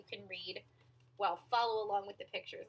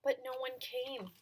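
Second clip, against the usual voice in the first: measured storytelling with stretched key words; picture-book narration; 4 semitones higher, 3 dB louder than usual. A narrator's reading. Reader telling children about an imaginary friend, storytelling voice. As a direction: read it to small children, pausing between phrases.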